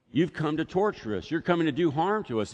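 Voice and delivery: lightly voiced frightened demon; demon accusing. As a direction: hurl the accusation like a cornered demon. Demon voice quoted.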